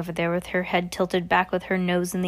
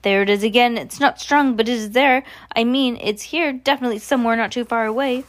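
higher, louder eager insisting; excited sniffing witch; 5 semitones higher, 5 dB louder than usual. Acted. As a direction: insist eagerly she smells it.

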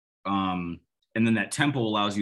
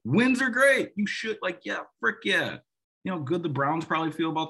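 excited; 10 semitones higher than usual. Real, not acted. Gleeful about wins.

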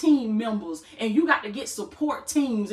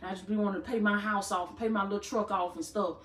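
mock small-minded believer; 5 dB quieter, faster than usual. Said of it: "you've been telling God".

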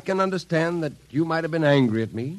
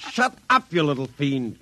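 angry shout; 3 semitones higher than usual. Acted. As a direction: snap at the laughing doll. Colonel shouts at the laughing doll.

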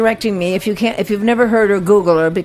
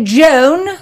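imitating the teacher's drawn-out call; raised, questioning roll-call voice; evil teacher; 5 semitones higher, 4 dB louder than usual. Teacher calling on a disliked student, haughty. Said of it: "So she'd say".

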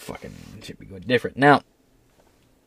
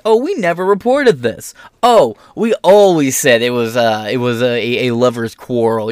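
mock gaslighting. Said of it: "weird gaslighting where people be like".

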